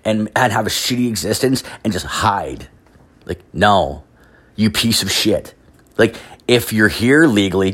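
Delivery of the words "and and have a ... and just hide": a hint of a lazy shrug, lightly voiced; mocking immigrant. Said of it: "You're just like".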